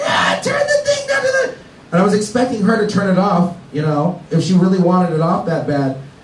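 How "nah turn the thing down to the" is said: play-acted, very high, shrill, furious screech. Retelling how she screamed at him to turn it down, retelling a scream. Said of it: "She's like screaming at me".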